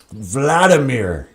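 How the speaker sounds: slow drawn-out villain name. Shown as a demonstration. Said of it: "he even sounds like a good villain".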